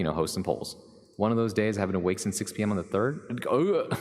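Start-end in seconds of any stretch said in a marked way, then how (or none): 3.5-4.0 short rising groan of disgust; groaned ugh. Real, not acted. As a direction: let out a higher-pitched "ugh". Reacting to being long awake.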